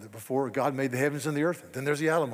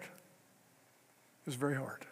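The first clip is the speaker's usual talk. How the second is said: quieter and slower, weighed down; heavy, slow, soft repeat; 8 dB quieter, much slower than usual. Real, not acted. Preacher lingering on his brother-in-law's decline, slow and soft. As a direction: let it sink, slowly and softly.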